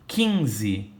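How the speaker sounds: "quinze" said KIN-ze, with no U sound; U mudo. Shown as a demonstration. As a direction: say "quinze" with a plain K before the I. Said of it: "Eu não ouço o som do U". ("quinze" sem pronunciar o U)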